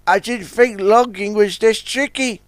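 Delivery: Sunshine groans while clearing a log jam; groaning. Acted. Young tug groans over a log jam. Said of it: "groaned Sunshine".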